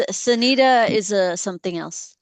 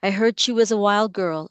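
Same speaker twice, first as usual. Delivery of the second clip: poem reading. Acted. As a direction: read the poem deliberately, letting lines land. Reads her poem aloud.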